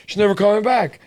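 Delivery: high mock outburst; retold alarm. Owner hears that the cat got out, high retold alarm. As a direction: exclaim it in retold panic, pitch climbing. Retells panicked reaction to escape.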